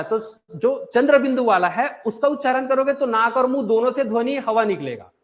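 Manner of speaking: normal talking voice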